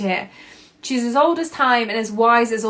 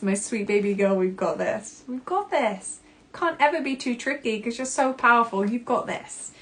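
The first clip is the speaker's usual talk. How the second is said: soft, tender reassurance; tender comfort; 2 semitones higher, 4 dB quieter than usual. Shown as a demonstration. Grace soothing her inner little girl, tenderly. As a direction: cradle each word gently. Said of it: "For me, it's".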